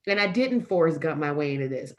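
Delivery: firmly correcting your own doubt; firm rebuttal. Real, not acted. Speaker answering her imposter syndrome, firm and assured. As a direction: deny it with steady conviction.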